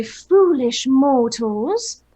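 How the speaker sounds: dark lord. Acted. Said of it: "and say".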